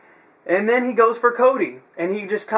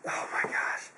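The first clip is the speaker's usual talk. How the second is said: whispered aside, much softer; exasperated whisper; 14 dB quieter than usual. Real, not acted. Reviewer fed up with the GMs' feud, whispering in exasperation. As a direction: whisper it under the breath.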